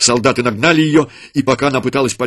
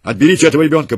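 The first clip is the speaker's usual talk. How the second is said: loud, harsh commands; harsh order; 4 semitones higher, 6 dB louder than usual. A narrator's reading. Legionary ordering his soldiers to kill, loud and harsh. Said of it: "приказал он солдатам".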